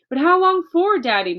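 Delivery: high, loud anxious plea; a child begging her father for an answer; crying out. Acted. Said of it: "Matilda cried".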